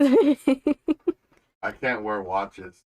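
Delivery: loud, very slow, drawn-out proclamation; mock dramatic boom. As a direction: boom it out like a grand confession. Dramatic joke about warping reality.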